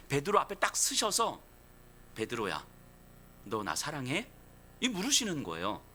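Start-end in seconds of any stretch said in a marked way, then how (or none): 2.2-4.3 tender question. Acted. Jesus voiced asking Peter.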